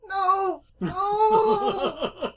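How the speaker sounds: yelling across the room. Acted. Character learns phone is locked away.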